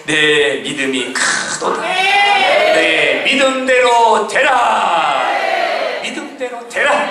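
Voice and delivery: slow, ringing declaration; proclaiming Jesus. Acted. Jesus declaring the blessing, slow ringing decree. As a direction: stretch 내 믿음대로 되라 out. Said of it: "이렇게 말씀하시는 거예요".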